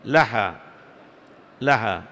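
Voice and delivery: لحى said "laha", with an A after the L; deliberate "la-" at the start of لحى; fatha on lam. Shown as a demonstration. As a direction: open the L of لحى with a short A. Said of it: "أي بفتح اللام".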